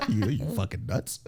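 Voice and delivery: laughing through the words; you're nuts, laughing; laughing disbelief. Retold or imitated. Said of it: "I was like".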